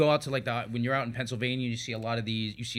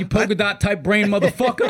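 mocking insult; 8 semitones higher, 7 dB louder than usual.

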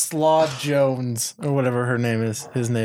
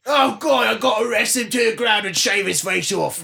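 excited shout; 6 semitones higher than usual. Pretend. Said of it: "Why does this sound like a sex tape?".

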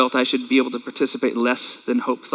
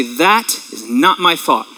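firm declaration; slower than usual. Shown as a demonstration. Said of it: "taught us to say".

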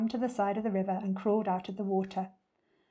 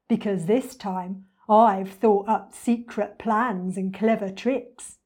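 boastful crocodile; 5 dB louder, slower than usual. Acted. Crocodile's boast, later echoed.

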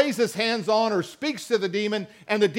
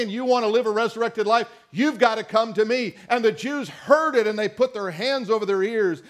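emphatic sermon cadence, each I am driven home; full preaching voice. Acted. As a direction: preach it to the congregation with rising fervour. Preacher builds through the I am sayings.

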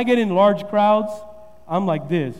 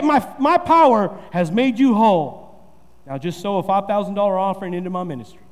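mock televangelist; 3 semitones lower than usual. Shown as a demonstration. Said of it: "He says".

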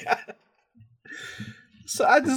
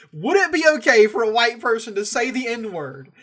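laughing while quoting; 6 semitones higher, 7 dB louder than usual. Retold or imitated. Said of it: "Reddit question that was like".

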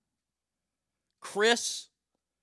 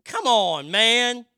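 loud whine; 6 semitones higher, 9 dB louder, much slower than usual. Acted. Complaining no hurricane named after him.

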